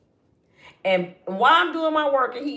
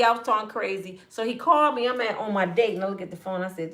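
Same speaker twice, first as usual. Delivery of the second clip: usual speaking voice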